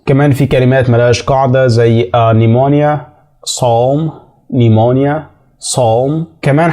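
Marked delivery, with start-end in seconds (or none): 2.3-6.3 "نيمونيا" starts on n, "صوم" on s; silent P. Shown as a demonstration. Teacher listing irregular words, "نيمونيا" and "صوم" with no p. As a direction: say "نيمونيا" and "صوم" as pneumonia and psalm, p dropped. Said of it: "مش بننطق حرف ال P".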